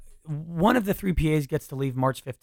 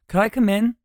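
higher and louder, sweetly pleading; drunk girl's voice; 9 semitones higher, 7 dB louder than usual. Shown as a demonstration. Drunk roommate asking to come into his room, high and coy. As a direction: ask to come in, sing-song. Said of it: "She was like".

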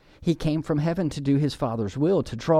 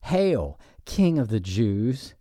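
mocking hail; slower than usual. Soldiers pretending to praise Jesus as king, mocking. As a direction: hail him in mild mockery, slowing down. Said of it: "was all mockery".

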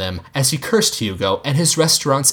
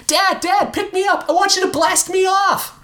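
put-on very high squealing boy voice; excited kid. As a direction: bounce with boyish glee. Kid begging dad excitedly.

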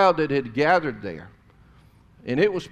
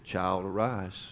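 slow tender command; 6 semitones lower, 6 dB quieter, slower than usual. Acted. Jesus quoted again, slowly.

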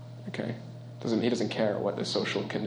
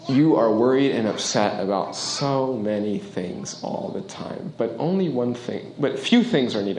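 gentle Jesus; slower than usual. Retold or imitated. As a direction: speak to her like a patient friend. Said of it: "I love the way he says it".

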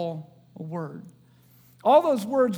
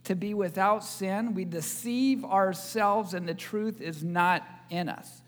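scripture reading; 2 semitones lower, 3 dB quieter than usual. Acted. Opening scripture reading over music.

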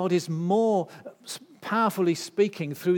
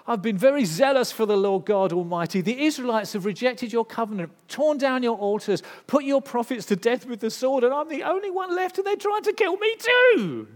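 rising from loud to a much higher, louder desperate cry; blurting outburst; 7 semitones higher, 7 dB louder than usual. Retold or imitated. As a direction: pour it all out, climbing higher with each complaint. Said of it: "Elijah just blurts it all out".

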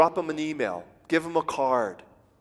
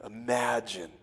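hushed, lower whisper; 5 semitones lower, 7 dB quieter than usual. Real, not acted. Preacher inviting the congregation to imagine, whispered. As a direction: breathe it like a secret.

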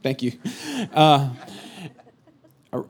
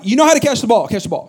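mild mock irritation; 3 semitones higher, faster than usual. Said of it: "I'm like / I was mad".

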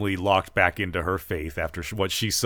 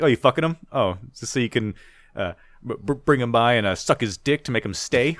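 angry taunt; 3 semitones higher, faster than usual. Retold or imitated. Acting abusive son's insult.

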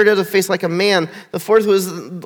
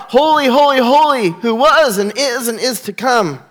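ringing proclamation; 3 semitones higher than usual. Acted. Preacher voicing creation's cry to the congregation, high and ringing. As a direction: call the holies out joyfully.

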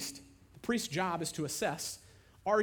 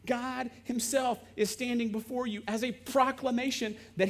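higher, pressing exasperation; indignant Jesus; 5 semitones higher than usual. Acted. Jesus frustrated with people who don't get it. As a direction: demand they finally see.

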